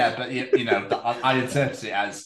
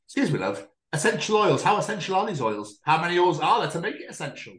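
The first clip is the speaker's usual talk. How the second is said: lightly hammed-up pushy customer, higher; mock customer grilling; 6 semitones higher than usual. Customer grilling a Saturday shop worker, mock-pushy. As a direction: grill the shop kid about essential oils. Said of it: "and just go".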